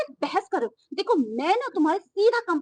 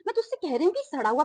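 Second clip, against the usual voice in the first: angry outburst; 3 semitones higher than usual. Acted. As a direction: lash out in disbelief. Customer insults pleading delivery man.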